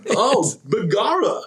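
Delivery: slow, high Irish brogue; hammed-up Irish accent; mock Irish accent. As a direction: ham up an Irish lilt.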